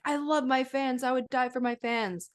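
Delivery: hint of a gushing star; mock gushing celebrity. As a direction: put on a high celebrity declaration. Mimicking celebrities professing love.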